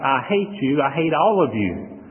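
lightly acted angry coworker, near own voice; a hint of the coworker's anger, retold; quoting a hostile coworker, only a little heated; mock angry coworker.

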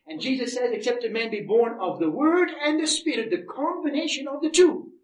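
emphatic preaching. Real, not acted. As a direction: preach it, swelling to a forceful finish. Preaches from scripture, building.

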